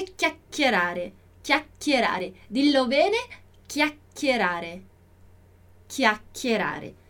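"chiacchierare" slow, with a held second k; forced double C. Shown as a demonstration. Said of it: "a gente vai forçar um pouquinho". ("chiacchierare" forçando o segundo som de qui)

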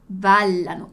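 Ballano with a held double l, for repeating; Ballano, crisp double L; said clearly. Shown as a demonstration. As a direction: model Ballano slowly for the class. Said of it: "Dillo chiaro?".

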